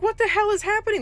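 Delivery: mock stunned narrator reaction; bewildered. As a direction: squeak out the confusion. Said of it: "just sitting like".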